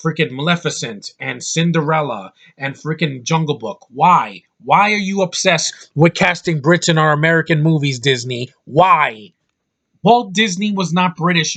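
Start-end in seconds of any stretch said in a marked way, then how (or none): 3.9-11.6 louder, exasperated demand shouted at Disney; frustrated critic shouting his complaint; angry rant. Real, not acted. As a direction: yell the why at the studio. Ranting at Disney's casting.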